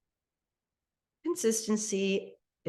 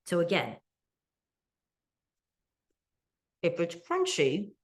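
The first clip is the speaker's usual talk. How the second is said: talking with food in mouth; mouth full. Real, not acted. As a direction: speak through a bite. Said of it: "sorry if I'm talking with my mouth full".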